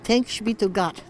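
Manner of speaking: light Yiddish lilt; Yiddish accent. Retold or imitated. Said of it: "they say in the Yiddish accent".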